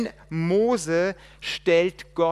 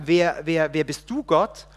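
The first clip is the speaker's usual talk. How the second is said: loud stammering question; urgent stammer; 5 dB louder than usual. Acted. Man demanding to know who God is, loud stammer.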